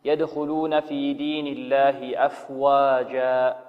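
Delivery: slow chanted recitation; Quran recitation. Shown as a demonstration. Teacher recites the verse again, slow chant. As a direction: recite the verse calmly and drawn out.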